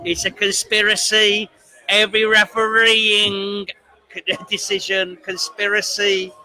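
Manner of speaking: lightly voiced aggrieved fan; moaning about referees; Liverpool football fan. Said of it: "let me finish".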